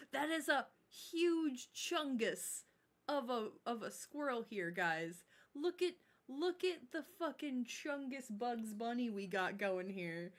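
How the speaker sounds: giggling through the words, slowed; laughing while talking. Real, not acted. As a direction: laugh it out, delighted. Gushing over chungus squirrel.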